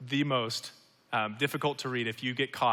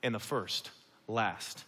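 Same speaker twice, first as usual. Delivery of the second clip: slow, measured words of Jesus; slow solemn quote; slower than usual. Acted. Jesus speaking his parable's lesson, slow and solemn. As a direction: let each word land slowly. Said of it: "And so he says".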